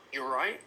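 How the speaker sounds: "you're right" run together with no final T; linked informal pronunciation. Shown as a demonstration. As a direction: link "you're right" into one casual phrase, T dropped. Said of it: "drop the R at the beginning".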